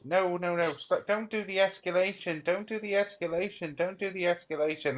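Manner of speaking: mocking Biden. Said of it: "That was Biden, by the way".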